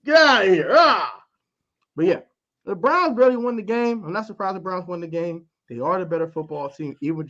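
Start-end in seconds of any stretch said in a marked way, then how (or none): 0.0-1.2 mock shove shout. Acting Garrett throwing Baker.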